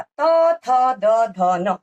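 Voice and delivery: each letter called out loud and separate; reciting the letters. Shown as a demonstration. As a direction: spell out the row letter by letter, loud. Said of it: "त वर्ग का". (वर्ण एक-एक करके ज़ोर से बोलना)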